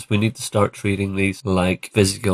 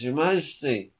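higher-pitched mock courtier; Walter Raleigh; 6 semitones higher than usual. Raleigh reporting back to the Queen, mock-formal courtier. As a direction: announce it grandly to a monarch. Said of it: "Walter Raleigh comes back and says".

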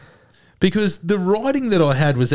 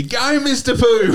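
crowd cheer; 10 semitones higher, slower than usual. Retold or imitated. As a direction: call it out like a cheering spectator. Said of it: "yell out to me".

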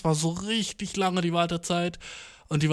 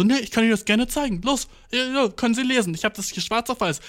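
higher, pushy officer insisting; insistent officer; 6 semitones higher than usual. Retold or imitated. Policeman insisting to the cyclist, higher and pushy. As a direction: press the paper on him, raised pitch. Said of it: "Und der war so".

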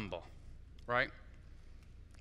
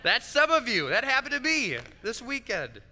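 laughing; 8 semitones higher, 6 dB louder than usual. Real, not acted. Laughing at his own example.

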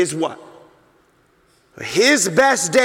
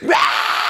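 put-on baby cry. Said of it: "he just lets out this".

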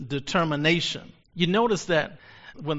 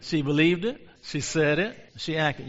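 call and response. Shown as a demonstration. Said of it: "Say it with me".

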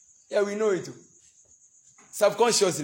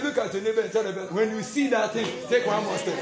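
louder repeat; 5 semitones higher than usual. Shown as a demonstration. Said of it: "I say".

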